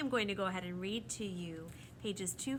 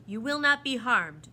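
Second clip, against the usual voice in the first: firm, louder reassurance; reassuring; 4 semitones higher, 14 dB louder than usual. A narrator's reading. The proc reassures a frightened Lindy, firm promise. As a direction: reassure her with authority. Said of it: "the proc reassured her".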